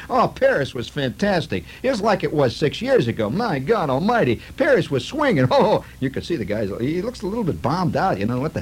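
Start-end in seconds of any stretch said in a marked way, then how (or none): 0.1-5.5 tourist voice. Retold or imitated. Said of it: "one guy says".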